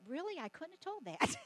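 dry teasing sarcasm; sarcastic. Pretend. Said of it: "My humor in me wants to say".

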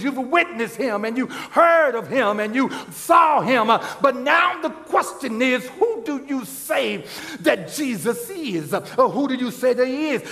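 rising preacher call; a touch of full preaching fervor. Acted. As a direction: build the question to the congregation. Preaching builds.

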